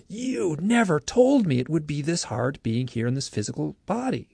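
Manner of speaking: high, protesting reenactment of chewing someone out; retold emotional outburst. Abductee chewing out the gray beings, upset. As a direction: protest with mock anguish, pitch soaring. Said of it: "emotional breakdown and chewed him out".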